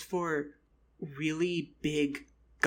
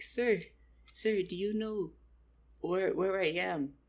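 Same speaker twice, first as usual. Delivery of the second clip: slightly pleading, raised pitch; mildly pleading; 3 semitones higher than usual. Retold or imitated. Lost traveler asking a goblin for directions, mildly pleading. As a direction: call for help in a higher voice.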